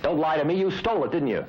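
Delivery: sharp, accusing push for the truth; harsh demand. Acted. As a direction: snap at him like an aggressive interrogator. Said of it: "With that harsh demand for the truth".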